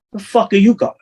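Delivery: high, loud snarl of a furious mobster; retold furious outburst; angry boss yell. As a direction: bark it like an enraged boss. Mobster boss yelling at him.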